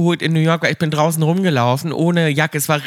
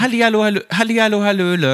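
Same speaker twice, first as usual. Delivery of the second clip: bright, higher mock catchphrase; imitating Verona; 4 semitones higher than usual. Mimicking a celebrity's slogan for her friend, lightly higher. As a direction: chirp it like an old TV ad slogan. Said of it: "der hat immer gesagt".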